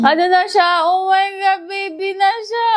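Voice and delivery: high, rising singsong dismay; startled by what is in the egg; shocked exclamation. Real, not acted. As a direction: exclaim high, stretching into a squeal. Reacting to formed duckling in egg.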